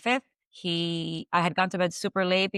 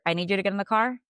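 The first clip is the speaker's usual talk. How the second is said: robotic flat voice. Retold or imitated. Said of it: "It was so robotic".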